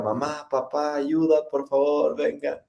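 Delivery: calling out for mom and dad in mock panic; a teen crying out for his parents at night, half-performed; desperate cry for help. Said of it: "empecé a gritar".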